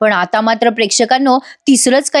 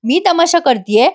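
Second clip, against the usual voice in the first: higher-pitched mild mock yell; 4 semitones higher than usual. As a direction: imitate an outraged wife's tirade. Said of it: "नैना अजून ओरडत म्हणते".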